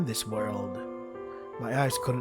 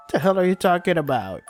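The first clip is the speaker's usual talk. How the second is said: angry; 6 semitones higher, 6 dB louder than usual. Acted. Angry retort in a tense scene.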